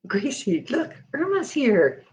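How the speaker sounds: excited pet talk. Real, not acted. Owner telling her pet Gracie that a friend has arrived, excited pet talk.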